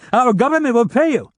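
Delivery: panicked wail. Acted. Captive son pleads with the gunman, panicked wail. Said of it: "in a panicked voice".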